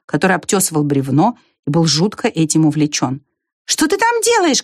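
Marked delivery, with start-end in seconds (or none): 3.6-4.6 very high calling question; shouted question. A narrator's reading. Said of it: "крикнула Белка".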